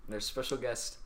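loud, high hyped YouTuber intro. Acted. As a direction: open the video like a big YouTuber. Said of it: "YouTuber voice".

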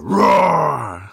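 little lion cub roar, high and light. Pretend. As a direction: give a small playful roar. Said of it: "Let out a little roar".

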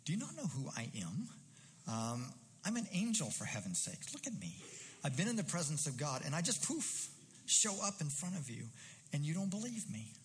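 exasperated, as if insulted not to be recognised; a bit of tone. Retold or imitated. The angel Gabriel, offended that Zechariah doubts him, rising indignation. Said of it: "a little bit of tone in Gabriel's voice".

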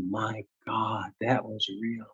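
soft, stunned realization; hushed awe. Retold or imitated. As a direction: drop to a quiet, awestruck murmur. Voicing awe after intense experience.

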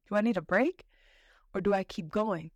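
breathless, laughing, winded after the climb; panting through the words after a hike; out of breath. Real, not acted. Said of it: "I'm kinda out of breath".

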